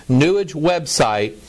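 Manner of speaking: "New Age" as one word, NEW-ij; mocking mispronunciation. Shown as a demonstration. Speaker introducing an article with a jibe, "New Age" said as NEW-ij. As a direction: make "New Age" rhyme with sewage. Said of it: "'cause it rhymes with sewage".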